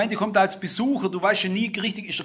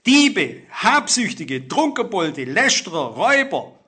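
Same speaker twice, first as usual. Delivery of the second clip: sins called out; 6 dB louder, slower than usual. Real, not acted. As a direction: hammer out every sin on the list. Preacher calls out list of sins. (lautes, langsames Aufzählen jeder Sünde)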